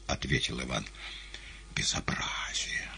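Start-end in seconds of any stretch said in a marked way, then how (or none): 1.7-2.9 slow disapproving whisper; hushed disgrace; whispered reproach. A narrator's reading. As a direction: scold under your breath. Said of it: "осудил гость".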